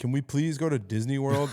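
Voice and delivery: pleading, begging tone. Retelling asking a dad as a child: imitating own childhood plea. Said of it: "I'd be like".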